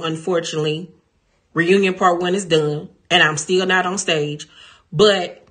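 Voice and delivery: excited vlogger outro; hyped outro. Real, not acted. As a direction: pump up the subscribers. Outro pep in dressing room.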